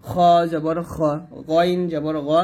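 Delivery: "খ" and "গ" heavy from the top of the throat; thick throat sounds. Shown as a demonstration. Teacher showing where throat letters come from, thick sounds. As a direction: say "খ" and "গ" thick, with rounded o vowels. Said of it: "কণ্ঠনালীর শেষ থেকে হবে মোটা করে".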